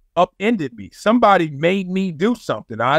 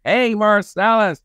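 slow, higher imitation of an NFL coach; slow coach greeting, pitched up; Marv Levy; 4 semitones higher, slower than usual. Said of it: "that's how he sounded".

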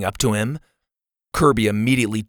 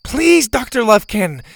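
high, loud begging; urgent raised-voice appeal; shouted plea; 11 semitones higher, 5 dB louder than usual. Acted. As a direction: call out pleadingly from afar. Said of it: "Bo shouted".

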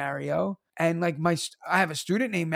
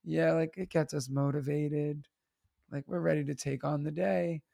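mock sad; 3 semitones lower, 6 dB quieter than usual. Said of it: "with a sad voice".

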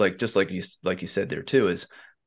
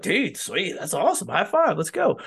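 high, upbeat bro cheer; hyped bro cheer; 8 semitones higher than usual. Retold or imitated. Host mimicking friends cheering a great day. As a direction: cheer a buddy on, high five. Guys voiced hyping friend.

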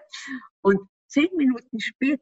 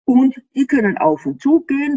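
breathy whisper, louder than usual; 4 semitones higher, 4 dB louder than usual. Real, not acted. Explaining tight junctions to the host, whispered.

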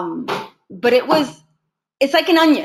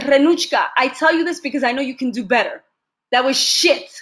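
put-on stern teacher with a Russian accent, slightly raised pitch; thick Russian accent; 3 semitones higher than usual. Russian teacher telling his student she can do better, Russian-accented scolding. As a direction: imitate a Russian coach's blunt scolding. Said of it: "in a very thick Russian accent".

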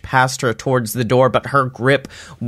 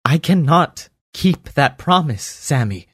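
a lightly voiced elf, earnest and grave; Derby pleading; 2 semitones higher than usual. Derby begging Sammy not to go back, grave.

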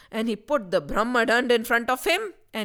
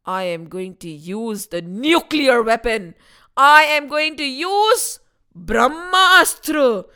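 villain threat; 3 semitones higher, 4 dB louder than usual. Acted. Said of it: "Finally, he said".

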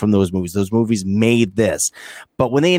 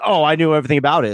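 smug; 4 semitones higher, faster than usual. Retold or imitated. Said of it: "when they're like".

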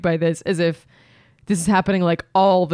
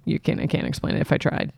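mock giggling; 5 semitones lower, 6 dB quieter than usual. Acted secret laughing.

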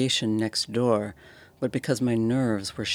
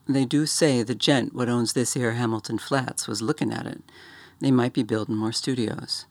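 Cockney bellhop. Acted. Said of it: "Thomas's Cockney dialect".

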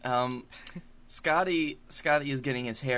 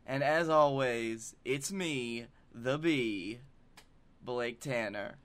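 slow show host intro; announcer; 4 dB quieter, slower than usual. Acted.

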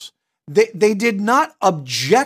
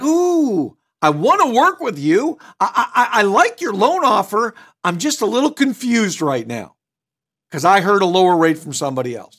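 friendly, cooperative customer. Shown as a demonstration. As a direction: sound keen and a little confused, never pushy. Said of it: "I'm not argumentative. I, I, I'm not condescending".

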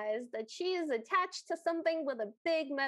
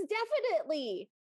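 higher, swooping troll reply; emphatic troll; 4 semitones higher than usual. Acted. Troll answers Anya's guess, lightly hammed-up certainty. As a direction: play the troll's answer with an exaggerated tune. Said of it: "And the troll goes".

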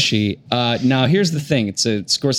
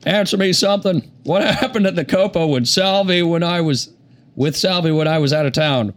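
higher Southern president voice, restarted; Bill Clinton; 3 semitones higher than usual. Acted. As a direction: try Clinton again, pitched up. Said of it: "play this role as Bill Clinton".

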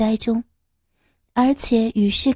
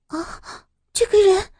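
sudden realization; 8 semitones higher than usual. Acted. Sudden recognition gasp.

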